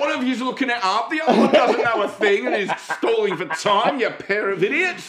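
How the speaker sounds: loud, high mock rant; hammed-up yelling; screaming. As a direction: rant at the hosts as an angry listener. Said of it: "there are people screaming".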